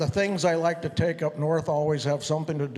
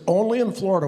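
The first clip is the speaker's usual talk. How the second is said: louder, higher, repeated for someone who missed it; 4 semitones higher, 5 dB louder, faster than usual. Real, not acted. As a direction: say it again so they hear.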